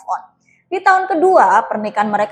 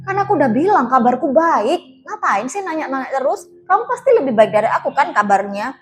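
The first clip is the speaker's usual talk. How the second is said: ketus marah. Acted. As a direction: push him away with annoyed scolding. Wife snaps at ex-lover. (marah ketus, mengusir dengan nada tinggi)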